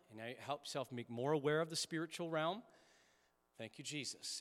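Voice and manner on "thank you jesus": soft, breathed thanks; soft prayer. Shown as a demonstration. A pastor modelling breath prayer for the congregation, hushed. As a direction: murmur it gently with the breath. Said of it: "And then we breathe out".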